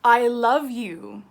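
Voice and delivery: slow, tender I love you with I stressed; a slow, heartfelt affirmation. Shown as a demonstration. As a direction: say "I love you" slowly like you mean it. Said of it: "The sentence is".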